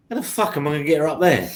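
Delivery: fast, laughing through the question. Retold or imitated. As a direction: blurt it out cracking up. Retelling panic, laughing as he speaks.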